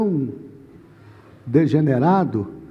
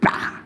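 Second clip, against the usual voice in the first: short "pá" slam noise; sudden unpitched thud sound; imitated impact; 7 dB quieter than usual. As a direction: mimic a book smacking the wall. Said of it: "joguei com muita força".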